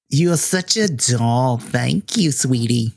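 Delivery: slow, fond granny thanks; doting thanks. Acted. Wendy thanking the player for cookies, slow and fond. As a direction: savor each word like a sweet old lady.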